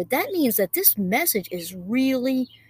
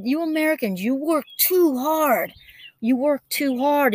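imitating a pointed, deliberate telling-off; a little attitude; 4 semitones higher than usual. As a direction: retell it with a touch of attitude. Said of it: "with a little bit of attitude".

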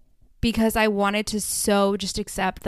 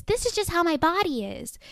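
mock excuse; 9 semitones higher than usual. Mocking dismissive women's excuse.

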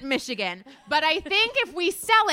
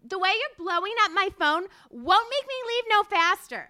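higher, sassy spoken lyric; dramatic lyric reading; 4 semitones higher than usual. Pretend. Guest reading lyrics as phone complaint, hammed-up. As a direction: act the lyric as a complaint to a caller. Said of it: "have you read some lyrics of hers".

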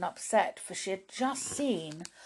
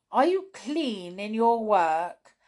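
brownie woman; 4 semitones higher, 5 dB louder, slower than usual. Acted. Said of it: "asked the brownie woman".

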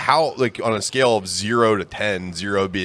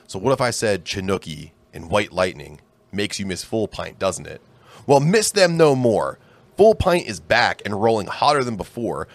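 ad read. Acted. Reads sponsor ad.

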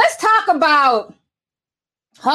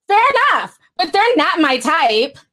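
reading voice. Retold or imitated. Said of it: "I know y'all love my reading voices".

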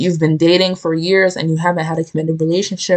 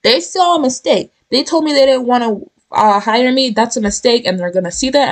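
higher, upbeat voicing of the affirmations; confident self-talk; 5 semitones higher than usual. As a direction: talk yourself up and mean it. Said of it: "tell yourself you are".

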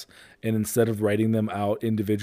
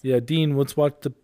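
higher, sing-song coaxing; coaxing a toddler; 5 semitones higher, 4 dB louder than usual. Retold or imitated. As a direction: gently coax a crying kid. Soothing toddler, offering iPad.

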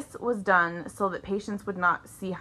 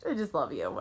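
softly quoting the message; 7 semitones lower, 8 dB quieter than usual. Retold or imitated. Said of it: "I just have to tell him".

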